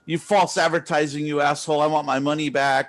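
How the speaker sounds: mock angry customer. Streamer voices a customer demanding a refund, mock outrage. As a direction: rant back as the cheated customer, half joking. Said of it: "And they're like".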